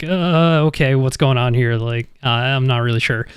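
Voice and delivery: shaky voice. Acted. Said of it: "shaky voice / wobbly voice".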